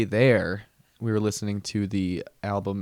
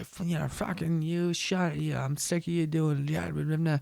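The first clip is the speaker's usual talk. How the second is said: a higher, mock-angry rant in dad's voice; imitating angry dad; 7 semitones higher than usual. Dad ranting at his girlfriend in the car, mock angry. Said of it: "he's, like, fucking yelling".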